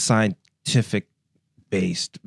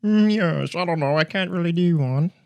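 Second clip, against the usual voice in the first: put-on higher, louder posh British accent; attempted British accent, higher and louder; 8 semitones higher, 5 dB louder than usual. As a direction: play it stiff upper lip British. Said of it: "What's your best British accent".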